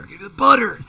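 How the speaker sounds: loud high yell at the dog; mock-angry call to the dog. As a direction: shout for the dog to come. Calling the dog angrily.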